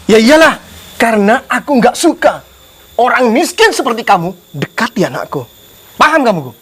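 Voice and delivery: contemptuous scolding; angry father. Acted. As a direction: lay down the law to an unwanted suitor. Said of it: "Nggak usah marah-marah kayak gini". (bapak marah dan menghina)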